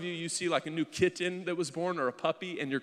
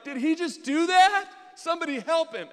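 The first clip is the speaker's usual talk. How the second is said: overreact as if the film were real; hammed-up distress; 12 semitones higher, 8 dB louder than usual. Tearful husband reacting to movie ending, hammed-up distress.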